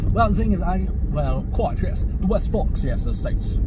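British accent. Shown as a demonstration. Vlogger showing off a bad accent, mock British. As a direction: put on a self-consciously bad British accent. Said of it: "That's my British accent".

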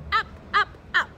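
climbing excited up up; rising up. A narrator's reading. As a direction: lift the voice as the bowls fly. Bowls flying upward.

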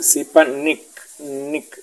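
sipanik with a loose last i, nearing e; relaxed I. Shown as a demonstration. Teacher models the dotted I, sipanik with relaxed vowel. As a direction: let the vowel in nik go slack, toward nek. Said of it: "es una I relajada".

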